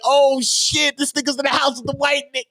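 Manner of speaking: hammed-up outrage; mock gossip shout. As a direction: act out the shocked gossips. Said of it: "They're like".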